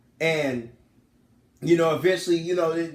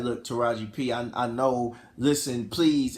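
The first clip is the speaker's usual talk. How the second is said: low, placating plea; retold pleading; 5 semitones lower than usual. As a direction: plead gently as the husband. Retelling husband pleading with wife.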